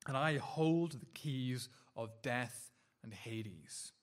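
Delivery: a firm, unhurried divine voice; solemn voice of the risen Christ. Acted. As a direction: declare each phrase slowly, with authority. Voices Christ's words in Revelation.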